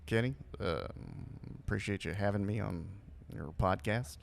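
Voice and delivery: halting presidential impression; Barack Obama. President thanking the podcast host, halting impression. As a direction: hesitate between phrases, then lift the pitch. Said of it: "you do a good Obama".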